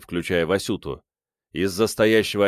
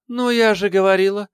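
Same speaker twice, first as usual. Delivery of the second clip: much higher, louder gloating cry; triumphant exclamation; 12 semitones higher, 5 dB louder than usual. A narrator's reading. Mother triumphantly telling everyone she was right, high loud cry. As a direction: crow that you were right. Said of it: "торжествующе воскликнула мама".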